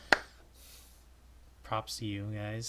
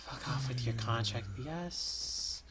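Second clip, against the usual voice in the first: slow deadpan; slower than usual. Acted.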